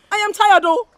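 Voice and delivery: anguished cry. Acted. Daughter cries out to mother.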